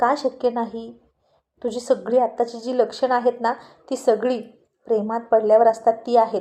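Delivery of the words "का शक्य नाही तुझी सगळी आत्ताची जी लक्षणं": ordinary delivery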